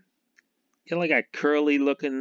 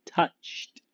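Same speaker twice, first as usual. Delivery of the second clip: laughing repeat. Real, not acted. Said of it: "John Matuzak was touched in the head".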